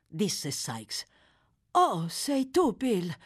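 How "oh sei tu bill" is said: slow, gently pleased greeting; happy murmur. A narrator's reading. Nancy welcomes Bill's return, murmuring happily. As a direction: greet him with a sleepy smile. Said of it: "mormorò Nancy sorridendo, felice del suo ritorno".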